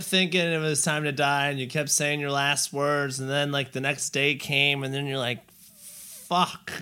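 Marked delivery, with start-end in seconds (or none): 5.5-6.7 startled curse. Pretend. Waking up still alive.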